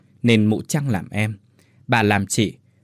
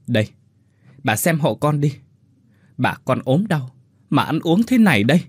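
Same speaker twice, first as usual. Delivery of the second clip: tearful grievance; 4 semitones higher than usual. Acted. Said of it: "Con Huyền ức quá, chảy hai hàng nước mắt".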